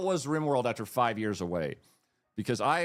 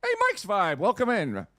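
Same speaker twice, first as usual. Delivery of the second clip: put-on Western accent; 9 semitones higher than usual. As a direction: play a hammed-up Texan cowboy. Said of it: "do you like my Western accent?".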